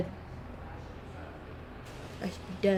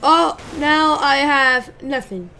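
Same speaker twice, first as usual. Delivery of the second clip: mock despair; 3 semitones higher, 7 dB louder, slower than usual. Real, not acted. Car destroyed, mock despair.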